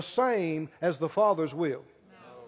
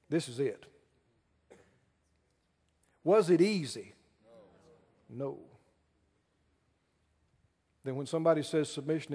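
much lower and softer, intimate; hushed sermon point; 7 semitones lower, 6 dB quieter, faster than usual. Acted. Preacher leaning in softly to tell the congregation it's not easy. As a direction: drop the voice to draw them in.

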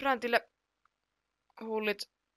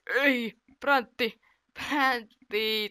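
loud, high, drawn-out protest; stretched cry of frustration; dismayed exclamation; 4 semitones higher, 5 dB louder, much slower than usual. Real, not acted. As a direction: wail at a player who missed. Player hits the post.

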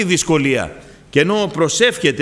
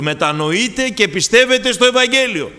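higher-pitched preacher's proclamation; raised, urgent preaching call; crying out; 5 semitones higher than usual. Acted. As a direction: call out the appeal like a herald. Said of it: "Φωνάζει με τους δούλους του".

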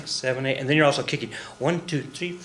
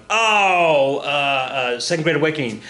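mock fire-and-brimstone believer. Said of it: "we were like".

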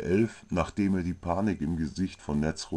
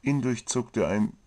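usual speaking voice

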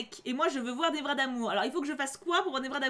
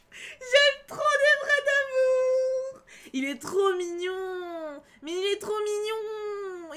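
much higher, slow, stretched-out swooning squeal; fangirl squeal; 9 semitones higher, 6 dB louder, much slower than usual. Real, not acted. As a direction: melt over your crush, near tears of joy. Fangirling over Nevra.

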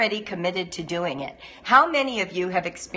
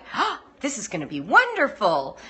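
acted gasp of delight, sweeping pitch; gushing happy enthusiasm. New homeschooler dreaming of what's ahead, gushing happily. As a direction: gush like a starry-eyed beginner. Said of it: "you're happy. You're like".

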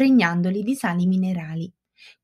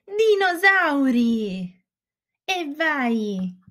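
squeaky shrill puppet voice; 6 semitones higher, much slower than usual. Acted. Dramatic reveal to children.

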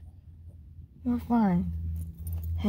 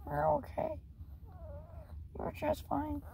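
soft, higher-pitched reassurance; soothing; 5 semitones higher, 13 dB quieter than usual. Real, not acted. Owner reassures scared little dog, soft soothing voice. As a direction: hush a nervous pup very gently.

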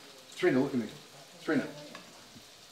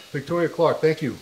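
excited shout-out; 5 semitones higher, 7 dB louder than usual. Real, not acted. Reading out live comments.

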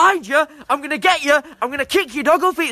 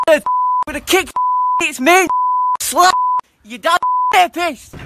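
angry threats; 3 semitones higher than usual. Acted. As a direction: rant and threaten through laughs. Threatening rant.

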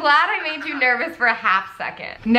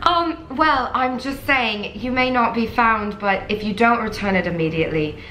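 put-on British accent; 3 semitones lower than usual. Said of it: "We're gonna do the British".

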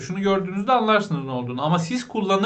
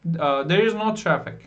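slow, careful English; slow model sentence; slower than usual. Shown as a demonstration. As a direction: say it slowly for learners. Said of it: "Dediğim gibi like de olur".

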